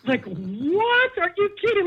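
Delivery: high, disbelieving retort; incredulous. Retold or imitated. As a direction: play it stunned and outraged. Disbelief at friend's text.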